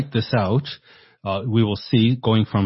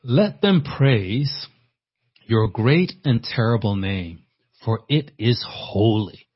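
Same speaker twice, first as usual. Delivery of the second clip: slow scripture reading; slower than usual. Acted. Preacher reads psalm verse aloud.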